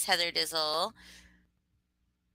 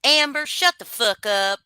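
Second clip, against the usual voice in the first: mock yell; 6 semitones higher, 7 dB louder than usual. Joking greeting yelled at chatter.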